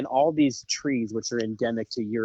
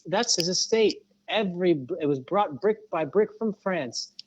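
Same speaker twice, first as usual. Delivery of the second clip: boastful pilot; 7 semitones higher than usual. Retold or imitated.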